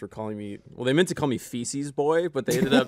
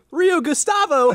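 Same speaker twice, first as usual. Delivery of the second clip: high, slow words through a laugh; 8 dB louder, slower than usual. Real, not acted. Joking about the dirty river, laughing through it. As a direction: crack up while saying it. Laughing at his own joke.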